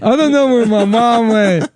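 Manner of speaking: high, childish put-on voice; hammed-up childish accent; fake childlike voice. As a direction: play a lost little kid. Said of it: "I don't know what kind of accent that is".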